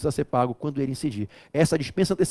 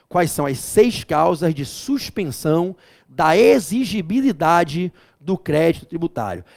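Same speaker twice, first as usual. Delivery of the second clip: pergunta repetida devagar; 3 dB louder, slower than usual. Shown as a demonstration.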